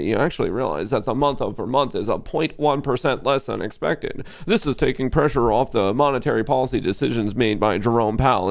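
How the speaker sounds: a hint of a monotone news pundit; mocking boring anchor. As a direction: mimic a sleepy TV analyst. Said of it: "we don't want some reasonable analysis".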